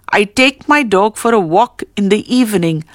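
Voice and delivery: "a walk" stressed mid-sentence. Shown as a demonstration. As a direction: put the weight on "a walk". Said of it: "The highlighted words are a walk".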